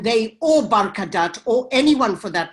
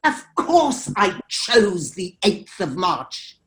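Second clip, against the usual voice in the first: slow, emphatic retort, each word weighted; retold angry retort; slower than usual. Filmmaker turning on her accuser at the panel, retold slow retort. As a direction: turn on her, slowly and pointedly. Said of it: "I turned on her and I said".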